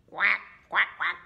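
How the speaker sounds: short duck quacks; duck quacking. Acted. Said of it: "We have the duck".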